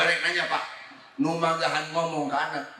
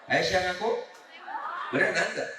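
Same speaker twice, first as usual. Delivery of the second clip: put-on baby talk; 3 dB quieter than usual. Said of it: "Ngomong dicadel-cadel".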